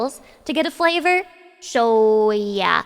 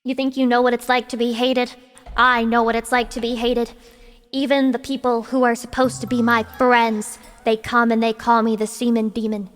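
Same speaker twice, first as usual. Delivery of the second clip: mock tragic monologue; 4 semitones lower than usual.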